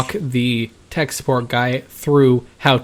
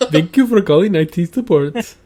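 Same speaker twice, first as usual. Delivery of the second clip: higher-pitched imitation Indian accent; mock Indian accent; 5 semitones higher than usual. Host joking as a tech support agent, mock Indian accent. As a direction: put on an Indian call-center accent. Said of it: "to avoid the racial stereotyping".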